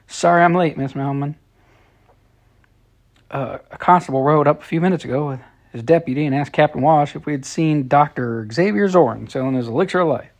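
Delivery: put-on huffy, breathless boy talking fast; out of breath. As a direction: gasp between words, hurried. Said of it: "all huffy and out of breath".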